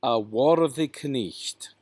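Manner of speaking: "knecht" slowly, as "kuh-nisht"; sounded K and GH. Shown as a demonstration. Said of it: "where you pronounce the K N".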